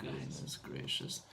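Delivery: very low, soft put-on drone; low droning repetition. Repeats phrase in put-on deep drone.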